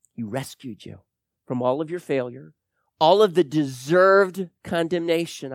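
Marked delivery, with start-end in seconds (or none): 3.0-5.5 deserved leaned on with weight; stress on deserved. Shown as a demonstration. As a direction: make deserved the key word. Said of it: "I underline and emphasize that word deserved".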